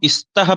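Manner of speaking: स्तः begun with a stray 'i', as 'istah'; wrong added vowel. Shown as a demonstration. Teacher asking what follows from misreading it, wrong added vowel. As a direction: slip an 'i' in before स्तः. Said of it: "जो गलती होती है उच्चारण में".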